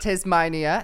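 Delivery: amused go at an antipodean accent; accidental New Zealand accent. Shown as a demonstration. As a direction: try Australian and land on New Zealand. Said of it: "I'm doing New Zealand".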